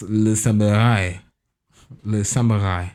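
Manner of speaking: lightly put-on French accent. Shown as a demonstration. Host slipping French into English, in a French accent. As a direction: say it with a playful French lilt. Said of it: "just you doing a French accent".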